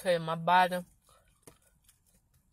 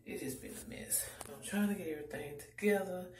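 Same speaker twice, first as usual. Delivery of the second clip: whispering; 5 dB quieter than usual. Real, not acted. Whispering in store while filming.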